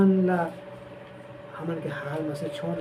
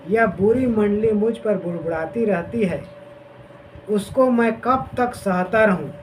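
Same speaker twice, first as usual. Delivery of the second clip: raised, deliberate Bible reading; scripture reading; 3 semitones higher than usual. Acted. Preacher reads Numbers to the congregation, proclaiming. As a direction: proclaim the verse to the listeners.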